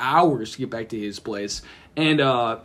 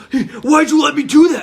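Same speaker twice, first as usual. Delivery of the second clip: high, loud indignant whine; mock accusing; 8 semitones higher, 6 dB louder than usual. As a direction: blame your friend, half laughing. Brother blames friend after crash.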